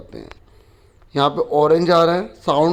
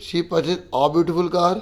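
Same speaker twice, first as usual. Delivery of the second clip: slow reading; much slower than usual. Shown as a demonstration. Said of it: "teacher tries each option".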